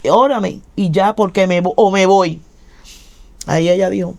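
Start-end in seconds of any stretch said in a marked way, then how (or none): 0.1-2.4 impatient demand. Retold or imitated. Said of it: "Y yo le dije".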